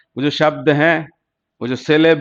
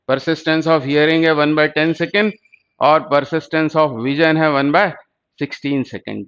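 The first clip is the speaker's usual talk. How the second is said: slow, deliberate recap; slower than usual. Shown as a demonstration. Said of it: "दोनों याद रखें".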